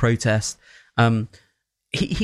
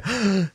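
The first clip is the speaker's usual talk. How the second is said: a quick high imitated gasp of shock; mock gasp; 9 semitones higher than usual. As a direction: gasp as if the film stunned you. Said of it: "it doesn't make you go".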